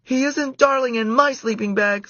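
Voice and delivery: put-on high, loud indignant girl. A narrator's reading. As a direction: stress my. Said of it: "said Karen".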